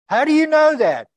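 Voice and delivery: high, loud, exasperated demand; angry tour guide. Retold or imitated. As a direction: snap it back at him like a fed-up guide. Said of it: "He started getting angry".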